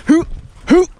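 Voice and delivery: short hoot to tease a dog; quick hoots at a playful dog. Real, not acted. Teasing his dog with noises.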